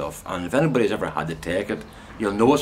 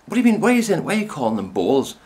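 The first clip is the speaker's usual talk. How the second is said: higher imitated woman, half-laughing confusion; baffled chemist; 8 semitones higher, faster than usual. Chemist mishearing bowls as bowels, higher mock disbelief. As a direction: squeak out her confusion. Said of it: "And she went".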